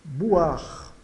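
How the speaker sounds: "boire" as "bu-ar", ending on R; silent final E. Shown as a demonstration. Teacher sums up mute E, "boire" as "bu-ar". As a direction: drop the last E of "boire", OI as "wa". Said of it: "é mudo".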